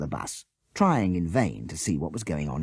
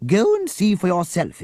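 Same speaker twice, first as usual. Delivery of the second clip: cross; 13 semitones higher, 7 dB louder than usual. A narrator's reading. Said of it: "said Miss Beaver crossly".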